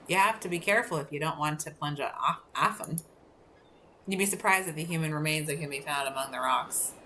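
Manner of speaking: put-on lighthouse keeper with a Scottish accent; lightly Scottish-accented warning. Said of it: "better with a Scottish accent".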